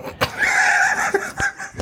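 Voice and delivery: breathy whispered laugh burst. Real, not acted. Laughing during whispered outro.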